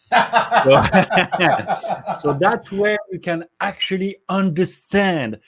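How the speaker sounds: amused giggle carrying into the sentence; laughing. Real, not acted. Joke about not reading audiobook.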